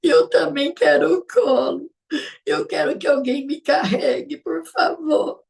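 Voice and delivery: mock crying. Mother pretending to cry to her tired little daughter, mock crying. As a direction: whine through pretend sobs. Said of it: "fingia que estava chorando e falava".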